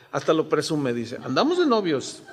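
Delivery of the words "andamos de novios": laughing. Retold or imitated. Wife quoted, laughing.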